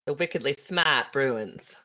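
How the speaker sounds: put-on slow, drawn-out Boston accent. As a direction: say it like a Boston local. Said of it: "You can do the Boston accent".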